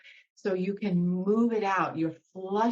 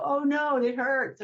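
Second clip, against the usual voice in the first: higher, louder mock alarm at the hurt; pained cry; 7 semitones higher, 4 dB louder than usual. Teacher voicing a hurting part, mock alarm. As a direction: voice the part that flinches from pain.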